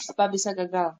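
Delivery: whispered hesitant question. Real, not acted. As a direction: barely breathe the question.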